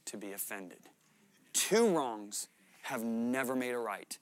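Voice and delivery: preacher driving the point home; preaching. Acted. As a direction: preach it with conviction. Preaching to the congregation.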